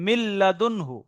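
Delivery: মিল লাদুনহু slowly, nun merged into a doubled l; pronunciation demo. Shown as a demonstration. Teacher showing how it is pronounced, slow model recitation. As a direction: recite মিল লাদুনহু measured, each syllable distinct. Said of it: "উচ্চারণটা কি কি হবে?".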